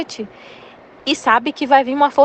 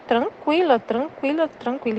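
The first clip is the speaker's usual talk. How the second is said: fading calm; 2 semitones higher, 5 dB quieter, slower than usual. Real, not acted. Repeats calm word, fading.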